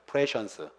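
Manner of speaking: 프레션스 with the stress on the first syllable, not 프리 사이언스; pronunciation demo. Shown as a demonstration. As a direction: model 프레션스 clearly for students to copy. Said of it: "프레션스라고 발음합니다". (프레션스, 프리 사이언스가 아닌 발음 시범)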